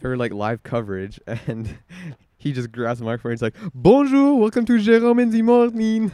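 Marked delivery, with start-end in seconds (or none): 3.7-6.1 super-positive Quebecois host, very high and loud; Jérôme Jarre. Retold or imitated. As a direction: belt out an over-the-top morning show greeting. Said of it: "Quebecois person? ... super positive".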